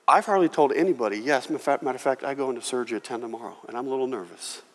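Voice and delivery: quiet nervous admission; hushed confession. Retold or imitated. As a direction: confide it quietly, a little nervous. Lady confesses surgery.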